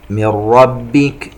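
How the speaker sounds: slow chant, "من" merged straight into doubled r of "ربك"; idgham without ghunna. Shown as a demonstration. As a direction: say "من ربك" with no nasal hum. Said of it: "إدغام بغير غنة". (ترتيل بإدغام "من ربك" بغير غنة)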